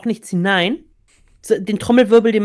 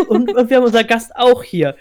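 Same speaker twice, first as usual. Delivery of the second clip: cheesy host announcement; 4 semitones higher, 4 dB louder than usual. Pretend. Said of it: "sagst so".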